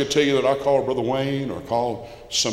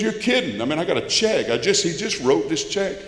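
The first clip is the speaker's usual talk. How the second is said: stunned disbelief; 5 semitones higher than usual. Retold or imitated. Friend hears father died.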